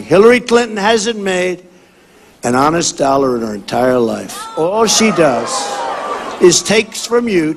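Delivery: forceful rally oratory to a crowd; rally speech. Acted. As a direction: campaign speech, punchy and declaiming.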